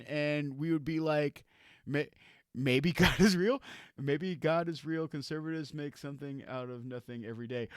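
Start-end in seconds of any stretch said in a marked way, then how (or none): 2.5-7.7 mock pundit musing, dropping softer and lower; understated parody of a leading commentator; insinuating inflection. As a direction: float "Maybe God is real" upward, then murmur the rest. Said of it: "in a certain inflection".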